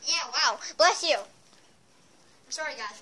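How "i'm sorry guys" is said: slow whispered apology; whispering. Real, not acted. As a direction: whisper sorry.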